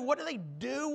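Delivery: "do" given weight as the question is repeated; stress on do. Shown as a demonstration. Preacher repeats the question to congregation, stress on "do". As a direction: lean on the word "do", then carry on. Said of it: "Emphasis on the word".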